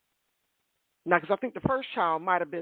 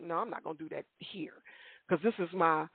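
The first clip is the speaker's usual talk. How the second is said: inner thought; 3 semitones lower, 6 dB quieter than usual. Retold or imitated. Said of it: "but I'm like".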